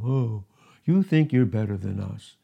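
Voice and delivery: lightly voiced mocking accuser; doubters' taunt. Doubters accusing Paul of superiority, mocking. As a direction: imitate a resentful critic's jeer. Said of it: "they were saying to him".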